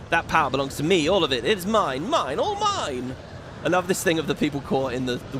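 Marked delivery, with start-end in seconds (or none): 0.1-3.2 greedy Garuda voice. Acted. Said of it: "It's Garuda".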